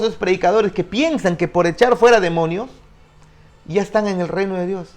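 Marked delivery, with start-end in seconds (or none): none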